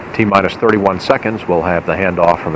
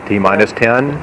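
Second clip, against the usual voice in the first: rising excitement into liftoff, higher at the end; counting down to go; 4 semitones higher than usual. Real, not acted. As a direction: count down steadily, then lift at liftoff.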